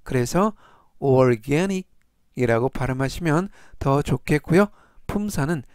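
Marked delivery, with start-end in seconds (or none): 1.0-1.9 organic with the A syllable stressed. Shown as a demonstration. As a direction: lean on the middle A in organic. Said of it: "강세는 중간 부분에 있는 알파벳 A에". (organic 가운데 A에 강세)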